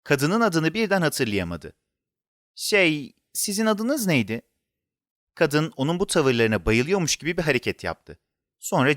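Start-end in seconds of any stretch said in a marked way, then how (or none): 2.5-4.4 lightly voiced child asking shyly; a hint of a child, rising into the question; hesitant child. A narrator's reading. Boy asking the woman her forgotten name, hesitant.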